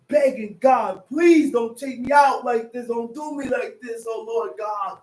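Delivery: full-force pulpit preaching; fiery preaching. Acted. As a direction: preach it hard to the room.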